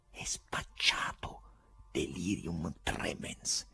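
slow, hushed, pitiless verdict; low, merciless voice. A narrator's reading. Onlooker judging the poet, low and merciless. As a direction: murmur it slowly and coldly. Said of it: "Una bassa disse spietata".

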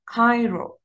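Cairo with a back, qaf-like first sound. Shown as a demonstration. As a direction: model word Cairo, K said like Arabic qaf. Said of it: "you have to say it Cairo". (نطق Cairo بقاف واضحة)

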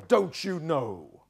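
slow, drawn-out mock exasperation; hammed-up scolding question; exasperated rebuke. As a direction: stretch each word at him. Zophar acted, berating Job.

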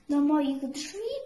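plain reading voice

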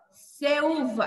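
"Ceuva" with an S sound, then a separate U; separado errado. Shown as a demonstration. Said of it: "Imagina você separar aqui". ("Ceuva" com som de S e U separado)

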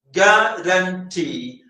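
ഗ്യാരണ്ടി slowly split, ending on a held TEE; stress on TEE. Shown as a demonstration. Teacher showing third-syllable stress in ഗ്യാരണ്ടി, stress on TEE. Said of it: "ആ ടി മൂന്നാമത്തെ stress ചെയ്യുന്നു".

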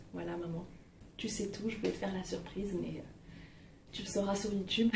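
soft, secretive aside to her mother; hushed aside to mum. Real, not acted. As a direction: let mum in on a secret, quietly.

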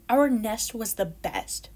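sulky boast. Acted. Kids grumping after storm.

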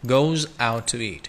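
"Goes" hit hardest, "out to eat" linked; stress on goes. Shown as a demonstration. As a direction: punch "Goes", run the rest together. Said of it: "Goes, đây là động từ, bạn nhấn lên".

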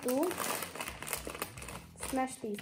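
put-on loud, sing-song counting for kids; kindergarten teacher voice. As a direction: lead the class in counting. Leading viewers to count along.

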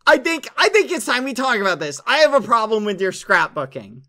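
loud, fast accusing; mock angry confrontation.

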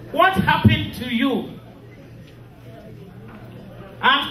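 solemn graveside address; mournful eulogy. Acted. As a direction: speak each line of farewell with heavy sorrow. Widow reads eulogy to husband.

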